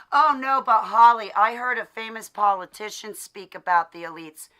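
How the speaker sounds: sneering imitation of the doubter; mocking critic. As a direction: talk down to her in mockery.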